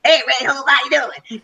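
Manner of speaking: lightly put-on Georgia accent. Co-founder greeting her on the phone, imitated Georgia accent. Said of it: "called me in his Georgia accent".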